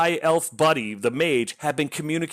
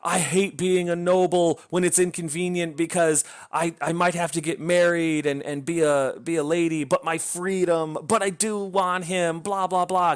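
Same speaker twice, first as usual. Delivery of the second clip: a mocking whiny lament, slowing toward the end; sending up the heroine's dithering; mock whiny noble heroine; 4 semitones higher than usual. Book reviewer mocking the heroine's endless dithering, whiny. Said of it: "A lot of talk about".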